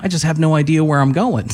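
can't hold the laugh in; laughing at his joke. Real, not acted. Teller laughs at his own cheesy joke, laughing.

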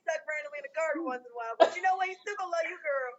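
breaks into laughing, voice cracking; laughing while retelling. Retold or imitated. Retelling friend's advice, cracking up.

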